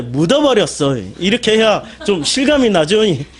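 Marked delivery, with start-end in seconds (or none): 0.0-1.0 "묻어버렸어" said in a Jeolla dialect lilt, voice dropped lower. Shown as a demonstration. Preacher says buried in Jeolla dialect for effect. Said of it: "전라도 말로".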